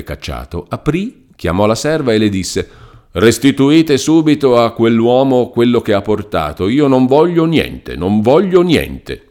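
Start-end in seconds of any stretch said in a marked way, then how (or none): 3.1-6.7 resolute order. Acted. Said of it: "proferito con una tale risoluzione". 6.7-7.9 high, emphatic no on voglio; firm refusal. Acted. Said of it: "con una tale risoluzione". 7.9-9.2 slower, settled no, voglio leaned on; slow final refusal. Acted. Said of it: "con una tale risoluzione".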